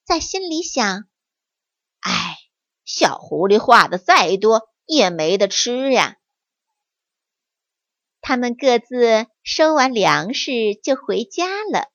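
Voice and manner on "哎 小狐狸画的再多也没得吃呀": sighing. Acted. Monkey thinking about the fox, sighing. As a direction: sigh it to yourself. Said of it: "小猴儿叹了一口气".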